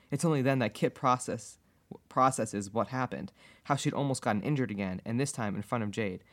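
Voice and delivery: calm, even read-aloud; measured storytelling voice; story narration. A narrator's reading. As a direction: read the fanfiction out as an unhurried narrator.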